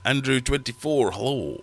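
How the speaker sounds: high, bright hello to a viewer; hailing a chat member by name; cheery greeting. Real, not acted. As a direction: call out the name like a welcome.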